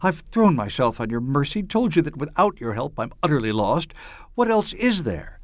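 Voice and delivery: rising desperate plea, voice straining upward; hoarse, vibrant voice. Acted. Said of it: "Her voice was hoarse, vibrant".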